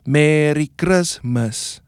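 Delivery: slow rhythmic "Merry Christmas" on the beat. Shown as a demonstration. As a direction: chant each "Merry Christmas" slowly to the beat. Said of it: "another group says".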